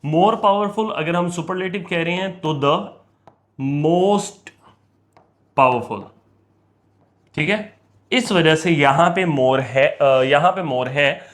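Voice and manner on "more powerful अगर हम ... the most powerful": teacher stressing most. Shown as a demonstration. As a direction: set most apart, then let powerful fall. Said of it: "more या most लगाना होता".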